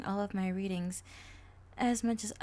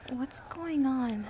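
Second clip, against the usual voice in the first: uneasy whisper; 5 semitones higher, slower than usual. Acted. Hears eerie whispers, alarmed.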